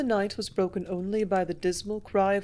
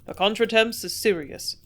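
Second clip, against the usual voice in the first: plain reading voice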